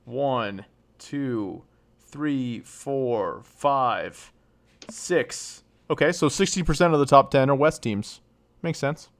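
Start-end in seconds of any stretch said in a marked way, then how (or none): 0.1-5.6 softly counting to herself; quiet quick count under the breath. Real, not acted. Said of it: "Hold on, I'm counting real quick".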